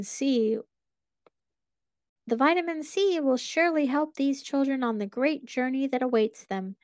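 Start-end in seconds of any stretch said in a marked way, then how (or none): 2.3-6.8 high, muffled creepy mascot voice; sweetly menacing bear behind a mask. Acted. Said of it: "Mister Bear mentioned".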